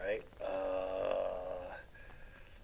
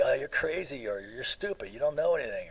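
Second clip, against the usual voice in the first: a light sneering taunt; mocking insult; 3 semitones higher, 4 dB louder than usual. Lecturer imitating someone throwing a mild mocking insult. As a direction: toss the insult off with mild mockery. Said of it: "mocking, like".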